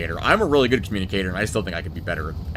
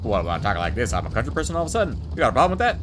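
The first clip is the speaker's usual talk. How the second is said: put-on Brooklyn accent; 2 semitones higher, faster than usual. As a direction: play a pushy New Yorker from Brooklyn. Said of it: "Actually, that's more Brooklyn".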